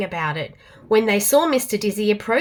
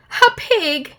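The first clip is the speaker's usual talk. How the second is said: trumpeting; 7 semitones higher, 4 dB louder than usual. A narrator's reading. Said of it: "he trumpeted".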